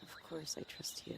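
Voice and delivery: soft breathy whisper; whispered reassurance. Acted. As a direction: breathe it close and intimate. Intimate reassurance.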